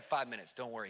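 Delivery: soft, low-key reassurance; unbothered, hushed and steady; cool and collected. Retold or imitated. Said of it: "He's just cool and collected".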